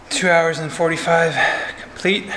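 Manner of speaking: breathless after a long ride; out of breath. Real, not acted. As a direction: speak while still catching breath. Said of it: "I'm gonna catch my breath".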